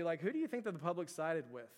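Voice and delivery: ordinary talk, nothing marked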